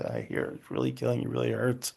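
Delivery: soft, slightly quick reflection of pain; gently mirror their hurt back to them; reflecting back softly. Shown as a demonstration. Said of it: "to say".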